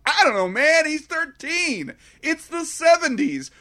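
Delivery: high, shrugging don't-care tone; lightly voiced careless teacher. Teacher brushing off the principal, high and careless. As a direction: toss it off like nothing matters. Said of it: "And she's like".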